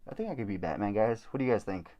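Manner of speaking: muffled behind a mask; through a face mask. Real, not acted. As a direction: talk through a costume mask. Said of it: "through this mask".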